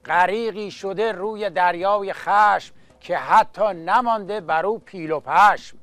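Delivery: rhythmic chanted Persian verse; epic teahouse storyteller. Acted. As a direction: recite like a coffeehouse naghal. Naghal addresses audience, verse.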